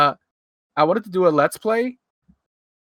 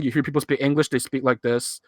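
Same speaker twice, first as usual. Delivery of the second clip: a hint of monotone Hong Kong-accented English. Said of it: "very monotone type of speech".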